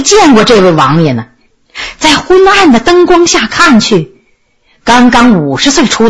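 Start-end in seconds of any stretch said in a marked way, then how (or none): none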